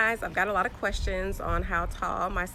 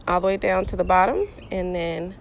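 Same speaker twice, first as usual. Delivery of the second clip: calling down from a ladder; talking while balancing on a ladder. Real, not acted. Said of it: "I'm on a ladder".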